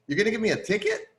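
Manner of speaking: high and fast disbelief; can't believe he's getting a ticket; incredulous question. Retold or imitated. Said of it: "I'm like".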